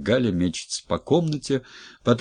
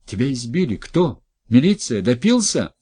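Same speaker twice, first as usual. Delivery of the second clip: alarmed questions; 5 semitones higher, 5 dB louder than usual. Acted. Wife alarmed at beaten husband.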